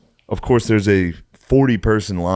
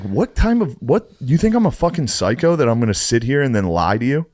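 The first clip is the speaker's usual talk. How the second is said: indignant; 4 semitones higher than usual. Retold or imitated. Retold argument with waiter.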